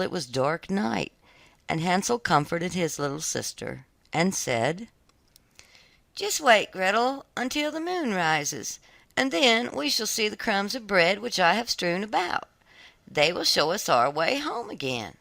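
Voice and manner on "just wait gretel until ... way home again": put-on higher boyish voice, reassuring; lightly voiced boy comforting Gretel. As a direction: soothe your little sister. Hansel comforts his sister.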